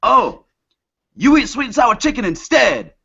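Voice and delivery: high, dismissive mock voice; imitating the restaurant guy brushing him off. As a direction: toss it off like a bored clerk. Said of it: "the guy's response is".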